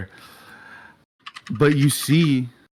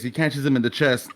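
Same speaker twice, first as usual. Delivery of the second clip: ordinary talk, nothing marked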